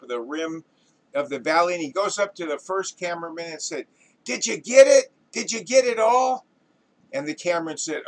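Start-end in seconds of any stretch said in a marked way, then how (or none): 4.2-6.4 high, loud, excited questioning; eager director. Acted. Director to first cameraman, excitedly asking. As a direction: beg to hear it was captured.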